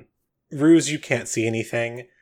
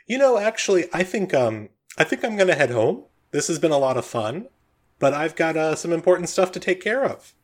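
higher, hesitant voice of an affable man; Bob, casually excusing himself; 5 semitones higher than usual. Acted. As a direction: make an awkward excuse to leave. Game master plays Bob.

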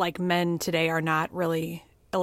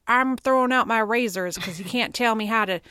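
a light, mocking Southern accent on an angry man; 2 semitones higher than usual. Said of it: "I don't know why I have a Southern accent".

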